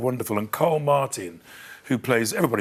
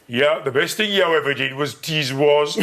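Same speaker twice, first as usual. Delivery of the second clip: Brummie locals; 2 semitones higher, 4 dB louder than usual. Retold or imitated. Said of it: "All these people sort of going".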